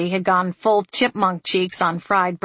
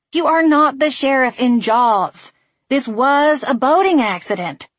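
crying out; 7 semitones higher, 5 dB louder than usual. A narrator's reading. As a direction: exclaim it in frustration. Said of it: "she cried".

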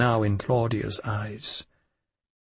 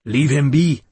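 fierce; 3 semitones higher, 6 dB louder than usual. A narrator's reading. Woman protects the drunk man, fierce order. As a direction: snap it fiercely. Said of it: "said the woman fiercely".

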